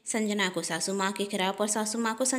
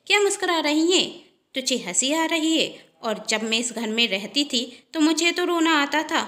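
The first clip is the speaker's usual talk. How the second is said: higher, louder, needling taunt; teasing jab; 5 semitones higher, 3 dB louder than usual. Acted. Pallavi to Sanjana, higher needling taunt. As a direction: poke at her for smiling.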